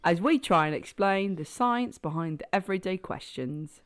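lightly put-on London accent; London presenter read. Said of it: "try a London accent now".

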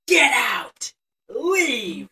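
loud, high tearful yell. Retold or imitated. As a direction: shout him out of the house. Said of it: "they're yelling at each other".

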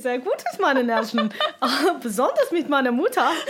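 a tipsy tourist reciting her exam German to a cabbie; drunk school German. Retold or imitated. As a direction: recite it like a half-remembered oral exam. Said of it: "And I started off like".

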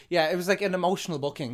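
burping mid-sentence; words broken by burps; talking while burping. Real, not acted. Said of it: "Sorry, I keep burping".

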